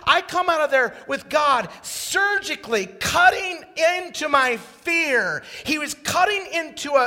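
loud, high, impassioned preaching; preaching at full force. Acted. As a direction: build it up, testimony at full force.

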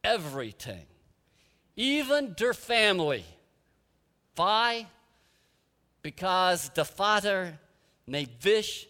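put-on a gentle old Dutch woman's accent, taking her time. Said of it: "in her strong Dutch accent".

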